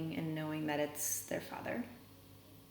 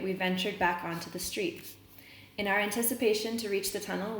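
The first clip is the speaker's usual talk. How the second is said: reading a novel aloud to the class; story reading. A narrator's reading. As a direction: read the chapter out steadily for students.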